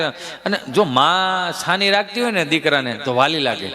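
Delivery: ordinary delivery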